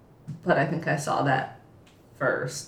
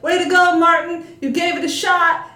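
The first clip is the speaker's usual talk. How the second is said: higher, louder, upbeat cheer; cheerful encouraging cheer; 11 semitones higher, 7 dB louder than usual. Retold or imitated. Vice principal cheering Martin after his flop, upbeat. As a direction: cheer him on to save face.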